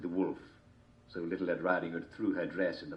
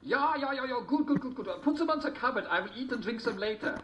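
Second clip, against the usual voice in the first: lazy wolf. A narrator's reading. Wolf voiced in story.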